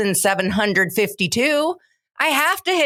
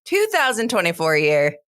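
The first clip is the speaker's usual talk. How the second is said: slow, high announcer voice; 5 semitones higher, slower than usual. Acted. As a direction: draw it out like a show announcer. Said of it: "you get announcer voice".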